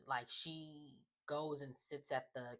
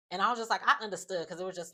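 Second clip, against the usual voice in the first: excited; 5 semitones higher, 8 dB louder, much faster than usual. Real, not acted. Emphatic reaction to episode.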